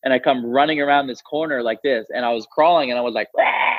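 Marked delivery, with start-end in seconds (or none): 3.4-3.8 zombie growl. Retold or imitated. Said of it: "making the zo-, the zombie sound".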